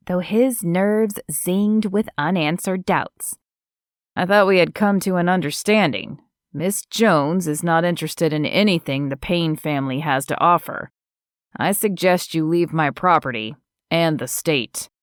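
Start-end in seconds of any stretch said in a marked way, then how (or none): 4.2-14.9 calm man voice. Acted. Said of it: "Zeke kept his voice calm".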